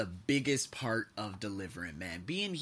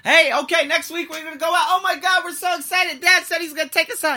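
loud, high, giddy chatter; mock-thrilled children repeating dad's promise; excited kids; 13 dB louder than usual. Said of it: "retelling dad's promises".

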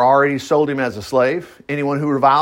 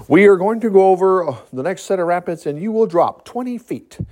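Sparky; 3 semitones higher than usual. Acted. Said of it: "the guy had come in there, Sparky".

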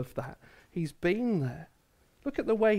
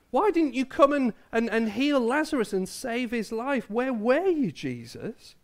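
mildly acted reproach, pitched up; higher, pleading accusation, lightly acted; a bit angry; 5 semitones higher than usual. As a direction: voice the sisters' hurt complaint. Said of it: "maybe a bit angry with Jesus".

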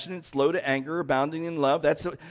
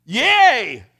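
a loud, high, mock-happy cheer; 8 semitones higher, 11 dB louder than usual. Congregation cheering for saved Nineveh, mock excited. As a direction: cheer it like a relieved crowd. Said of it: "we all should go like".

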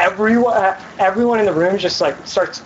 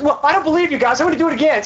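mock doubter; 7 semitones higher, faster than usual. Mocking Gideon's doubt.

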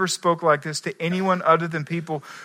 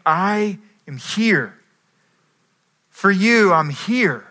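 earnest, slow; 2 semitones higher, slower than usual. Acted. Jesus speaking, slow and earnest.

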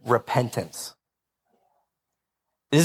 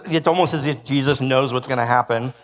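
sarcastic; 4 semitones lower than usual. Real, not acted. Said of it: "that's sarcasm".

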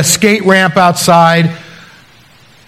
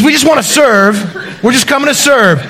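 mimicking Len; 5 semitones higher than usual. Len repeats his catchphrase.

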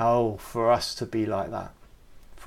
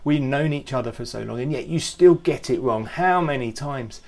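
a hint of an irritated father; mock exasperated scolding; 2 semitones higher, 5 dB louder than usual. The Father imagined scolding Andy, fed up.

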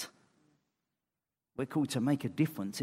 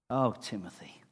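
tender. Retold or imitated. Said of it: "You can almost hear it in his voice".

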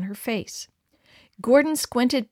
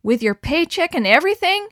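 higher, rising shocked question; dismayed cry; 7 semitones higher, 5 dB louder than usual. A narrator's reading. Suzanne hearing the paycheck is gone, dismayed cry. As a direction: gasp at the loss. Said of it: "cried Suzanne".

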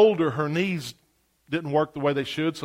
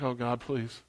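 hushed, low, desperate little prayer; quiet plea; 7 semitones lower, 10 dB quieter, slower than usual. Retold or imitated. Boy in the back pew praying softly, anxious. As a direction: beg God under your breath. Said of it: "he's like".

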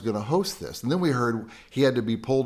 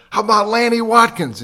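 loud, high shout to a crowd; big re-enacted crowd shout; yell; 11 semitones higher, 10 dB louder than usual. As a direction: holler the request from out in the gallery. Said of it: "And then I yelled".

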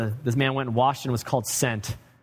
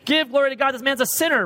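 mocking Pharisees; 9 semitones higher than usual. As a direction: sneer it as the self-righteous Pharisees. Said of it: "That's what they're saying".

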